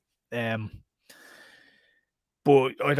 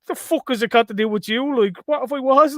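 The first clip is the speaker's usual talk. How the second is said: mock indignant yell; 9 semitones higher, 4 dB louder than usual. Retelling the angry guy at door.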